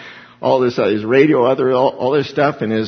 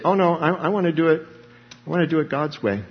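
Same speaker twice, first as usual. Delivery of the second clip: believer's refusal; 4 semitones higher, faster than usual. Retold or imitated. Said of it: "Because we say".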